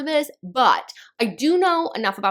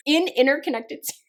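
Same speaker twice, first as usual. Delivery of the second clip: laughing; 4 semitones higher than usual. Real, not acted. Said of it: "I cannot say interconnected".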